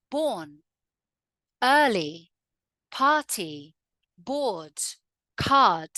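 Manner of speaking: non-rhotic Southern English, R dropped; "card" as "cahd", "party" as "pahty"; silent R. Shown as a demonstration. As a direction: say "Born, early, party, board, card" without sounding the R. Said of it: "we do not pronounce that R".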